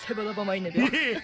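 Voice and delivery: Tsugaru-ben phrase repeated in one run; Tsugaru-ben dialect. Shown as a demonstration. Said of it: "Tsugaru-ben, どうやって言うの?".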